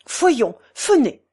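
put-on short German-accented urging; German-accented command. A narrator's reading. German friend summoning the portress away, German-accented command. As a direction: order it with v turned to f. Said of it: "répondit Schmuck".

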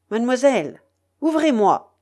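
loud, high pirate's thundering demand. Acted. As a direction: pound on the door with your voice. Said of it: "dit Argot d'une voix tonnante".

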